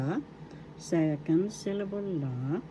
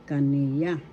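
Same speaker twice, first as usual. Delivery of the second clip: kaniya. with the middle "ni" drawn out; teacher carefully modelling kaniya. as ka-NEE-ya; stress on second syllable; 2 semitones lower than usual. Shown as a demonstration. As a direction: lean on the NI in kaniya. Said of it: "The accent is in the second syllable".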